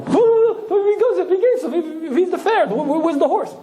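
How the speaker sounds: comic panic of a man from long ago; panicked Shmuel. Acted. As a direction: yelp in comic alarm. Shmuel panics as car moves.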